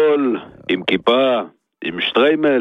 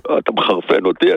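very low, contained warning; restrained exasperation; 14 semitones lower than usual. Real, not acted. Fed-up hardware seller to his customer, low restrained exasperation. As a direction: say it low, holding the temper in.

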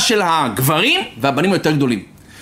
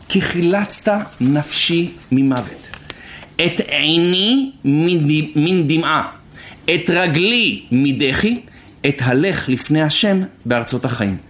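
slow, deliberate reading of scripture; verse recitation; slower than usual. Acted. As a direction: measure out each phrase of the verse, slowly. (קריאת פסוק איטית ומדודה)

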